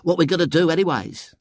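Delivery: put-on high, friendly boy's voice; mollifying. A narrator's reading. William placating his new friends, mollifying. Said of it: "he said in a mollifying tone of friendship".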